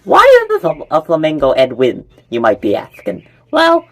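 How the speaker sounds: very high, loud flamingo voice. Acted. Flamingo Edwin asking why not, very high and loud. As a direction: squeal it like a giddy flamingo.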